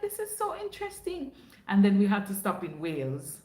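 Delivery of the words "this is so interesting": mock amazement. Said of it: "And I was like".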